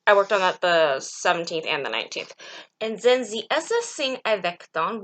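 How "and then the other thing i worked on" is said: slipping into a Transylvanian vampire accent; a hint of Transylvanian vampire accent creeping in. Real, not acted. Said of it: "like a Transylvanian vampire accent".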